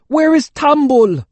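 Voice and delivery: very high, loud and slow bellow. A narrator's reading. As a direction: bellow across the courtyard. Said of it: "Father was bellowing now".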